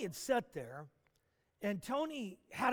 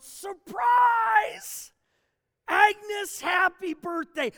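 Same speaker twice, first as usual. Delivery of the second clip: big, high, very loud party shout; yelled surprise; 10 semitones higher, 12 dB louder, much slower than usual. Retold or imitated. Crowd greets Agnes at her surprise party, yelling. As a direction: burst out like a crowd springing a surprise. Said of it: "they yelled".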